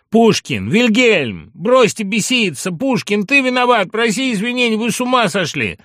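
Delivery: high, loud frantic appeals; urgent high-pitched yelling; alarmed shouting. A narrator's reading. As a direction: shout at two friends to stop. Friends shouting to stop a duel.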